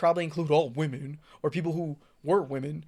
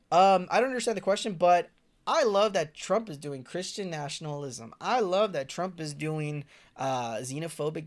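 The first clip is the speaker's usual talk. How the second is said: mock dim supporter; 4 dB louder than usual. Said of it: "people came up and were like".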